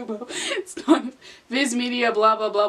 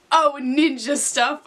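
cheerfully; 3 semitones higher than usual. Acted. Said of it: "I said cheerfully".

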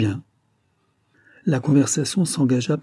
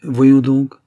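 slow, louder cajoling urge; coaxing; 3 semitones higher, 7 dB louder, much slower than usual. A narrator's reading. Widow urging a hesitant Lambert, coaxing. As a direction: coax with drawn-out, pressing words. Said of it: "continua la veuve d'une voix câline".

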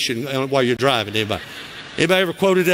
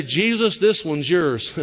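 1 sheepish disciples; 2 semitones higher, slower than usual. Retold or imitated. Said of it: "They say".

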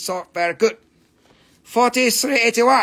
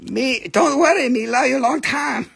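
higher, coaxing broken-English pitch; mock seller sweet-talk; 4 semitones higher than usual. Seller sweet-talks a customer, coaxing and higher. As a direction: coax the buyer in a higher voice.

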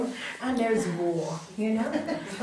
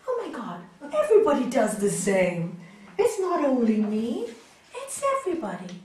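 surprised realization; 5 dB louder than usual. Retold or imitated. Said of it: "when I started doing counseling".

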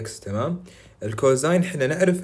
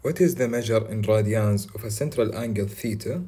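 slow reading; much slower than usual. Shown as a demonstration. Reading the exam question slowly.

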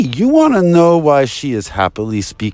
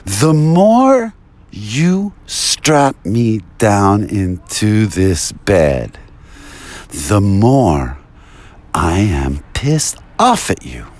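mock angry quote; 4 semitones lower, slower than usual. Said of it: "She said to them".

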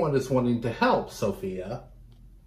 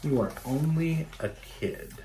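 mock dismissive; 4 semitones higher, 6 dB quieter than usual. Shown as a demonstration. Teacher echoing the clerk to the class, mocking. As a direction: repeat it with a sneer. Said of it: "teacher repeats clerk's line".

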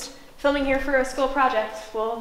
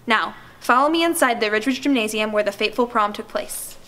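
measured on-camera news report; documentary presenter; 3 dB louder than usual. Acted. Student filming a report on the school disappearances, presenter delivery. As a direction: narrate it like a true-crime reporter.

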